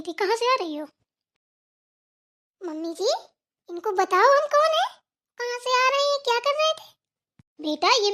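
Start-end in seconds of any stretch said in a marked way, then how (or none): 2.6-6.9 indignant demand. Acted. Daughter-in-law indignantly demands.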